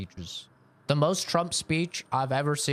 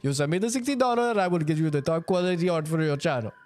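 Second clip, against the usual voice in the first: higher, pushy put-on voice of a sketchy art seller; a hammed-up scammer pitch, quicker than normal; mock art scammer; 6 semitones higher than usual. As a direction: sell the fake deal fast and sweet. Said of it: "that's basically how those conversations usually go".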